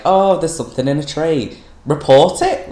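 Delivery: high, mock-urgent child character; mocking Scout. Summing up a hated book, mocking high voice. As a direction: pitch it up, lampooning the character. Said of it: "like, Scout just being like".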